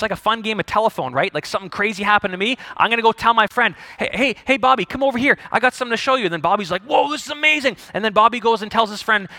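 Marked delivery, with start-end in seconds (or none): 4.0-6.2 excited. Acted. Acts out telling a friend excitedly. 6.8-7.8 higher-pitched amazed reaction. Acted. Friend reacting to big news, amazed. Bobby reacts in acted telephone game.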